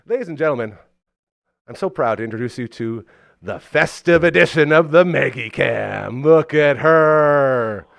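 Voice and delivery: loud, showy announcer voice; announcer read. Acted. Host presents the sponsor cam to viewers as announcer. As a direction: sell it like a big reveal.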